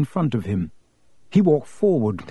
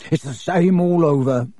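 oily voice; 3 semitones higher than usual. Acted. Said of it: "in his oily voice".

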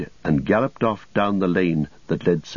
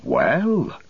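higher, drawn-out exclamation of surprise; farmer's surprised exclamation; 6 semitones higher than usual. A narrator's reading. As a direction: exclaim it with the pitch swooping up and down. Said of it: "he exclaimed".

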